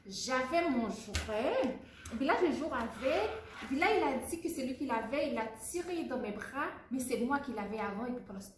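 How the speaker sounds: put-on slow, deliberate child's retelling. Shown as a demonstration. Child retelling the toy fight slowly for the teacher. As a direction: tell it again calmly and slowly. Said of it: "recommencer, plus lentement".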